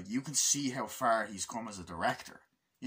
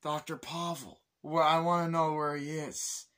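higher, put-on agent voice; hammed-up higher-voiced official; imitating the CIA agent; 5 semitones higher than usual. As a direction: play the cocky agent. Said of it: "he's like".

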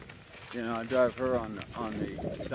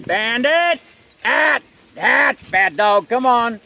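sharp, loud, high scolding of a dog; scolding yell; 12 semitones higher, 13 dB louder, much slower than usual. Real, not acted. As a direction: bark the commands at the dog. Yelling at dog.

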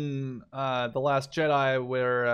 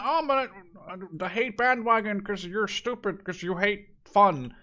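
higher, sneering parody of a bandwagon hater; mocking critic; 4 semitones higher than usual. Vlogger parodying people who mock fans, sneering. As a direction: lampoon the snobby critic, pitched up. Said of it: "I don't wanna jump on it".

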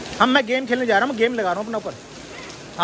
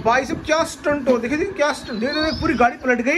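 monster truck ad; 8 semitones higher than usual. Pretend. Hyping monster truck stunt video.

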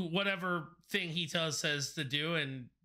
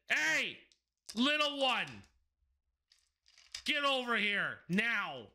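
high, calling yell into the pipes; 5 semitones higher than usual. Acted. Master yells down the pipes for the tiefling. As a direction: shout it down the pipes to the little one. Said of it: "he just yells at it".

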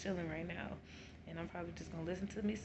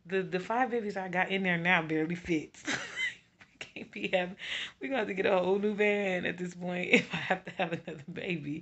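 laughing; 6 dB louder than usual. Real, not acted. Laughing about the van.

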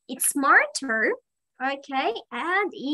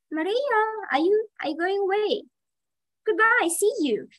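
bright, high call to a departing pupil; cheerful goodbye; 7 semitones higher, faster than usual. Real, not acted. Teacher calling goodbye to Maria as she leaves, high and cheerful. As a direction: sing out a friendly farewell. Student leaving the online class.

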